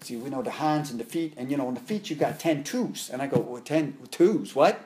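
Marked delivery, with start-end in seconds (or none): 0.0-3.1 a light imitation of a thick Filipino accent. Filipino master telling his student about the arts, lightly imitated Filipino accent. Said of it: "he had a real thick accent". 3.4-4.8 slow, puzzled repeat of "ten toes". Retold or imitated. Student baffled by the master's accent, slow puzzled echo. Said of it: "I couldn't understand".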